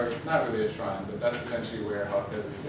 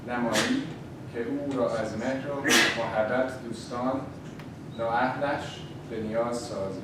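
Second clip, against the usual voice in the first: louder, theatrical fortune reading; right in your ear; 3 dB louder, faster than usual. Acted. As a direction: read the fortune like a soothsayer. Reads the fortune aloud.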